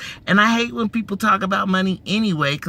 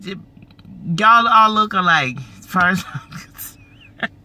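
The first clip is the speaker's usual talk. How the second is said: mock joke. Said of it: "I'm just playing. I'm being stupid".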